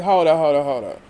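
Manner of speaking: imitating a sharp hold up that drops away; mock hold up. Sutton cutting off Kyle mid-complaint, mock sharp hold up. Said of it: "Sutton was like".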